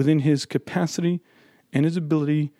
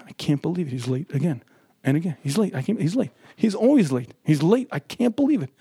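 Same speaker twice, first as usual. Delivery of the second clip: nagging inner complaint. Acted. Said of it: "you repeat it".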